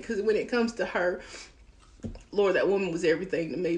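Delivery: thanking through real tears, quiet and fast at the end; tearful. Real, not acted. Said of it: "my child's handing me paper towels".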